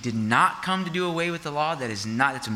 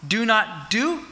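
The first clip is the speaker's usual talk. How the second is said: ordinary talk, nothing marked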